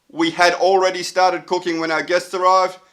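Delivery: stiff RoboCop-like reading; every word separate, like a robot. Shown as a demonstration. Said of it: "sounds a bit like, uh, RoboCop".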